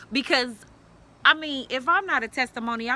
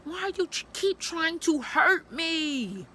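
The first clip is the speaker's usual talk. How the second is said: slow hurt plea; 5 semitones higher, slower than usual. Retold or imitated. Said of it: "'cause I'm like".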